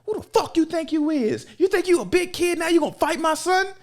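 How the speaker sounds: high, sassy angry mom voice; retold high-pitched scolding mom; angry mother. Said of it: "She was like".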